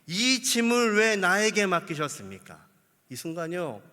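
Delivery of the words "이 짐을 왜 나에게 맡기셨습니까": loud exasperated protest to God; angry complaint. Acted. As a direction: Moses throwing up his hands at God. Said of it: "그러면 뭐라고 하냐면요". (하나님께 화내며 따지는 모세)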